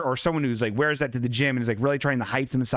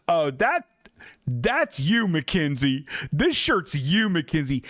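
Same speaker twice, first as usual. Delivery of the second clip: a hint of an embarrassing dad, a bit louder; too loud dad. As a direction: play the proud cringey dad. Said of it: "in a too loud dad voice".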